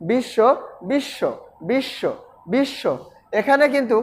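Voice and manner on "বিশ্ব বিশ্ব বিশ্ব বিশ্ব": বিশ্ব said "bishsho", sh doubled, ব silent; short joined "bish-sho", repeated with pauses; doubled consonant. Shown as a demonstration. Teacher drilling the doubling for students, বিশ্ব as "bishsho". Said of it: "দ্বিত্ব কিভাবে উচ্চারিত হবে?".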